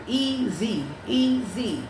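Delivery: EASY said in two separate even syllables, EA-SY. Shown as a demonstration. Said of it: "only supposed to be a two-syllable word".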